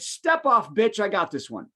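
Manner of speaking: lightly voiced Bronx smart-assistant; a touch of brash Bronx attitude; Bronx accent. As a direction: say it with a hint of the Bronx. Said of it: "changed Alexa's voice on the Fire to Bronx".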